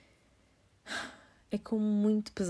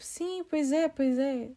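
high, louder rushed yes-yes; eager fake agreement; 6 semitones higher, 6 dB louder, much slower than usual. They hastily agree with the stranger, high and eager. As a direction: humour her to end the chat. Hurried agreeing to get away.

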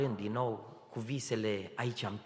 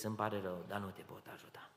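quiet final refusal; 6 dB quieter, faster than usual. Retold or imitated.

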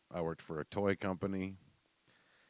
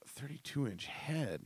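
incredulous echo; 8 semitones higher, 4 dB quieter, slower than usual. Retold or imitated. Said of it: "And I was like".

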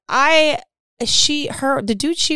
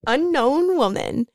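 higher, slow, mock ring announcer; echoed announcer call; 6 semitones higher, slower than usual. Storyteller echoes co-host's fighter introduction, mock announcer. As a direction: draw it out like a fighter introduction, not shouted.

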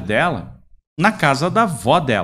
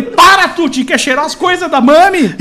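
high, loud teasing pet talk; mock baby talk to dog; 10 semitones higher, 8 dB louder than usual. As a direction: squeal it at the dog like a doting owner. He mocks dog after slapping it.

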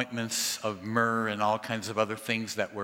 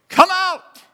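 huge shout, far higher and louder; 14 dB louder than usual. Shown as a demonstration. Jesus calling into the tomb, full shout. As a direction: call the dead out of the tomb. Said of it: "what shouting sounds like".

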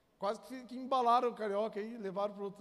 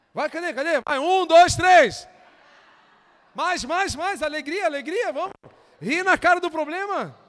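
loud, high, shouting hype; hyped-up urging; 5 semitones higher, 13 dB louder than usual. Shown as a demonstration. Preacher whipping the congregation into laughing, loud hype. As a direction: pump the crowd up. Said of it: "Faz assim, ó".

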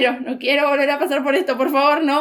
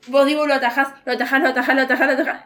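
talking to the TV; much faster than usual. Retold or imitated. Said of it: "Así, hablando sola".

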